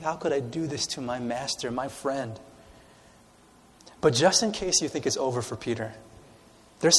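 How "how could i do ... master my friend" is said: mild lament. Acted. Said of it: "He's crying".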